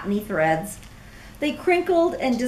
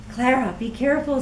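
mild scream; faster than usual. Acted. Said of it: "screamed Cornelius".

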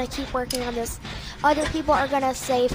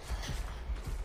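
hiccup sigh; 14 dB quieter than usual. Real, not acted.

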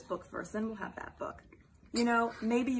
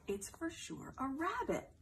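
soft whispered aside; whispering; 4 semitones higher, 6 dB quieter than usual. Acted. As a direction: whisper it like a secret.

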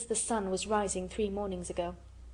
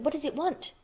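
excited cry; 6 semitones higher than usual. Acted. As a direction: call out in delighted wonder. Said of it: "cried Colin".

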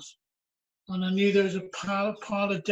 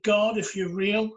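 half-raised, slower mock shout; loud, deliberate challenge to God, not a full scream; retold shout; 7 dB louder, slower than usual. Driver retelling his despairing cry to God, half-shouted. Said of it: "this is what I shouted".

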